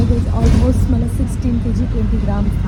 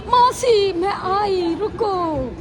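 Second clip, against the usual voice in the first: higher playful call after her; jokingly calling aunt to wait, much higher; mock calling out; 9 semitones higher, 4 dB quieter, much slower than usual. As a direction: pretend to chase the train.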